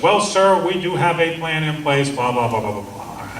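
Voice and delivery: mock bureaucrat, "Well, sir" pitched high then smoothing out; imitating a bureaucrat. Officer brushing off the speaker's question, mild mock bureaucrat voice. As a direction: lightly mimic a stock staff-officer brush-off. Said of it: "the bureaucrat language suddenly starts".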